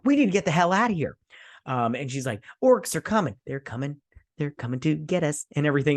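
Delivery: high, fast, loud mock panic; panicked warning. Single mom warning the town, hammed-up panic. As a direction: sound the alarm, half-hammed.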